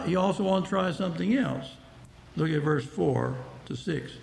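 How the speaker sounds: usual speaking voice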